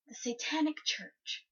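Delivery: slow, dramatic whisper; hushed reveal. Real, not acted. Storyteller reveals site her friend found, hushed whisper. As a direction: whisper the name as an ominous punchline.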